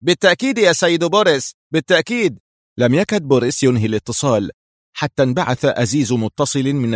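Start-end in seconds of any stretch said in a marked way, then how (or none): 0.0-2.4 meek, higher-pitched assent; submissive. A narrator's reading. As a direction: give in to the boss, pitch raised. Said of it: "ثم قال صاغرا".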